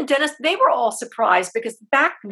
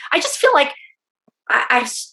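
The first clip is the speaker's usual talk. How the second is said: voice breaking; 6 semitones higher, faster than usual. Real, not acted. Emotional about returning to theater.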